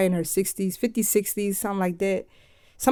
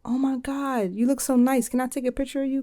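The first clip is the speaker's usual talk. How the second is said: put-on girly excited voice; 7 semitones higher than usual. Girl on beach asks picture.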